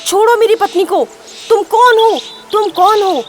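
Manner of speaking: high, loud alarmed demand; acted husband's urgent yell; shouting. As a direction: shout it at an attacker, pitch jumping up. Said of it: "Ramu चिल्लाने लगा".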